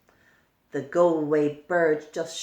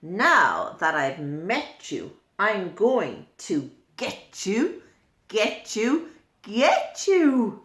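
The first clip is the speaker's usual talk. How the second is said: Get You bird threat. Acted. Get You bird threatening the go-away bird, building. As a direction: tease the threat, growing on each get you. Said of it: "the Get You bird said".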